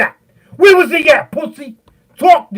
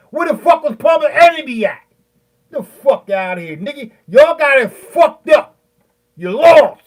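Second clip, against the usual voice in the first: getting real mad. Real, not acted. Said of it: "'cause I'm getting mad right now".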